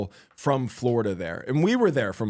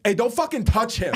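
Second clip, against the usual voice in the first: higher mock snap at a stranger; retold angry snap; 8 semitones higher than usual. Josh snapping at a stranger who bumped his friend, mock angry. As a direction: bark it like a friend defending you. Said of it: "Josh immediately goes".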